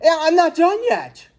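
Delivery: high, flustered comeback; flustered dad answering his bragging neighbor; embarrassed stammer. A narrator's reading. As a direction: scramble to save face, pitch jumping up. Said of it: "was suddenly embarrassed".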